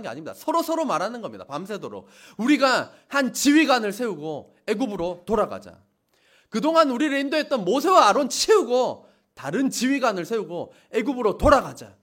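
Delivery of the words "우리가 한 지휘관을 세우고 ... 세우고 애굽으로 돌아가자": mock rebellious urging. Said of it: "원망하고 통곡한 것입니다".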